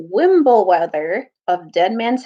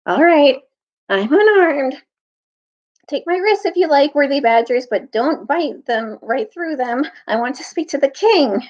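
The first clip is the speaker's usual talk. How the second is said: put-on old man pleading; 5 semitones higher than usual. Captured old tutor pleading.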